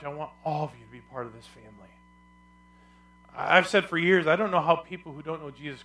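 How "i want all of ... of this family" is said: soft, low, quick line voicing God; God's tender invitation. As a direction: let it fall away into a quiet, loving invitation. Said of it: "He says".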